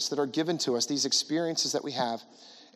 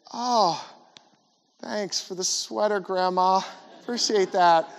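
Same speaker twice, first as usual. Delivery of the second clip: mock polite thanks; 5 semitones higher, slower than usual. Kid thanking Grandma for sweater.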